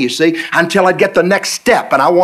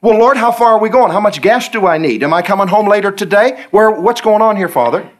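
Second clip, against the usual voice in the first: pleading questions; 5 semitones higher than usual. Retold or imitated. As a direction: beg God for answers. Believer pestering God.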